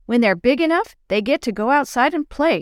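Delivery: lightly voiced small child; a hint of a little girl. Little sister explains innocently.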